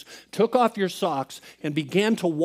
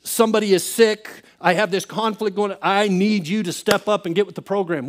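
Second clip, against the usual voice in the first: exaggerated, raised-pitch bossy prayer; demanding prayer; 4 semitones higher, 4 dB louder than usual. Praying to Jesus as a checklist, mock demanding. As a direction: hand down orders, hammed-up. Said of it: "We don't say it that way".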